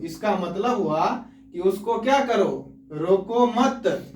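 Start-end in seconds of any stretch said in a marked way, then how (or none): 2.9-4.1 "रोको मत" drawn out slowly as one phrase; रोको मत joined. Shown as a demonstration. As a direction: stretch रोको मत together, then stop. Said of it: "मतलब नहीं रोको". ("रोको मत" धीरे, खींचकर एक साथ)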